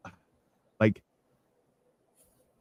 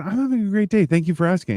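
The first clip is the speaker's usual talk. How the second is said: pitched-up pleasant customer voice; higher, appreciative retail niceness; friendly reply; 8 semitones higher, faster than usual. Retold or imitated. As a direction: imitate cheerful, polite small talk. Retold friendly reply to clerk.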